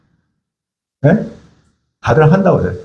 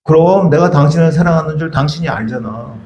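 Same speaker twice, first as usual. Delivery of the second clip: evasive reply. Shown as a demonstration. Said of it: "들어보세요".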